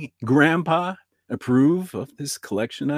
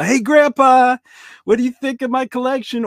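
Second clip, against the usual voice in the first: calling out; 12 semitones higher, 11 dB louder than usual. Acted. Calling to grandpa via Ouija.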